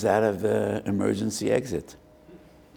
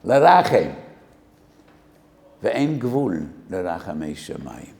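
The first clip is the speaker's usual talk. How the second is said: cried plea; 5 dB louder than usual. Acted. Pleading verse cried out.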